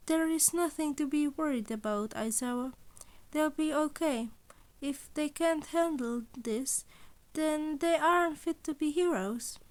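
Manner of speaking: a hint of a smug animal principal; lightly voiced cheerful principal. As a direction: sound sweetly amused at his dread. Principal Nezu's voice.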